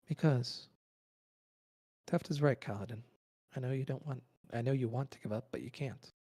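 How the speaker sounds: small light voice, pleading; pixie. Acted. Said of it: "tiny little voice of Still".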